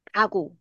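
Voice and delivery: "卡鼓" with breath released first on 卡; 气先出去. Shown as a demonstration. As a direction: puff out the k of "卡", then an unaspirated "鼓". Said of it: "我们气会先". (卡先送气，鼓不送气)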